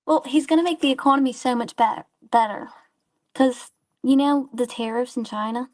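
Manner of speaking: high squeaky fake British voice; put-on British accent. Real, not acted. Troll caller answers the streamer in a fake British accent. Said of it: "trying to do a British accent".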